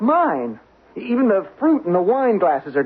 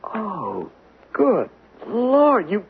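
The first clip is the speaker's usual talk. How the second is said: appalled fury; 3 semitones higher than usual. Acted. Learns case handed over.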